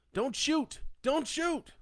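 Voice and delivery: high, loud pleading shout. A narrator's reading. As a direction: shout to stop the gunmen firing. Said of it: "Len shouted".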